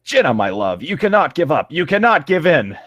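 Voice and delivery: mild mock heroic plea; hammed-up heroic plea. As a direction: plead like a melodramatic hero. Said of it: "his voice called out from it".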